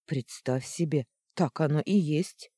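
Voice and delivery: в сердцах воскликни; горячо и с досадой. Acted. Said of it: "в сердцах воскликнула я". (в сердцах, восклицая)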